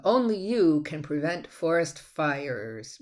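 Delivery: slow, stretched "Only you can prevent forest fires"; lengthened ending. Shown as a demonstration. Teacher demonstrating a lengthened ending to students. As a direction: draw out the last words. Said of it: "We can lengthen the last one".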